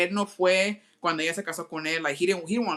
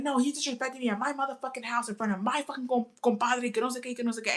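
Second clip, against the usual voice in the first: put-on drunk dad voice; 6 semitones higher, 4 dB quieter than usual. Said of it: "He's like".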